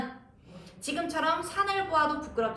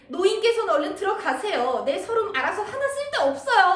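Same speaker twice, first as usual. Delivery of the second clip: mock crying protest; 6 semitones higher, 4 dB louder than usual. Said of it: "예의도 못 차리고 으으으으 하고 우는 거예요".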